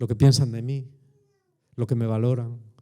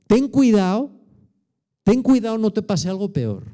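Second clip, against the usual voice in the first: voicing Jesus; 7 semitones higher, 4 dB louder than usual.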